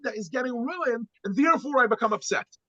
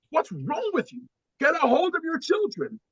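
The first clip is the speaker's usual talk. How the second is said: raised, higher scolding voice; annoyed passenger; 8 semitones higher than usual. Retold or imitated. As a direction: scold the dad like an irritated stranger. Angry passenger voiced in story.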